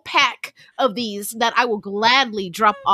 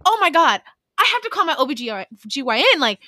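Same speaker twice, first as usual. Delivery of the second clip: panicked; 4 semitones higher than usual. Retold or imitated. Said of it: "I was like".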